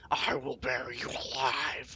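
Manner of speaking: slow, lightly voiced rumbling serpent; a hint of a rock serpent's menace; voice like tumbling rock. A narrator's reading. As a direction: let the threat roll slowly like rock. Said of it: "in a voice like tumbling rock".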